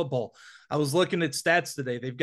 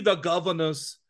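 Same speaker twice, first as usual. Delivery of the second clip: a habitual put-on accent on the team name; his Governors accent. Co-host naming the week's road team, in a light put-on accent. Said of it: "I don't know why I have that accent when I say it".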